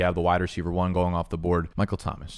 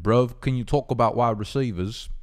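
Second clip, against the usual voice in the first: put-on wobbly English accent, near Australian; attempted English accent. Imitating a viewer asking about receivers, rough English accent. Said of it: "I'm trying to do an English accent".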